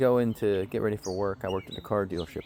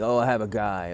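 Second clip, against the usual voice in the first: mocking old-timer; 5 dB louder than usual. Mocking old men's phrase.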